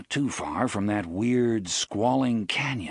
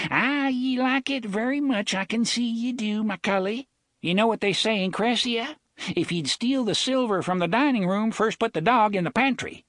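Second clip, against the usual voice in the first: much higher put-on hick Hambry accent; 13 semitones higher, 3 dB louder than usual. Jonas teasing Reynolds in a hick Hambry accent. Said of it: "putting on a hick Hambry accent".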